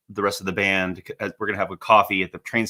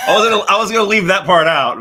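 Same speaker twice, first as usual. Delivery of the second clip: talking through laughter, high and loud; real laughing embarrassment at what just slipped out; 9 semitones higher, 8 dB louder than usual. Real, not acted. Co-host reacts to the swearing in the story, laughing loudly.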